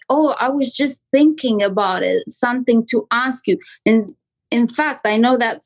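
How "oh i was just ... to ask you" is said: offhand, as if "something" just occurred; natural thinking pauses. Shown as a demonstration. Agent making a script feel spontaneous, casual pauses before "something". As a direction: linger on "thinking", then add "something to ask you". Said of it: "you have pauses, which makes it feel like".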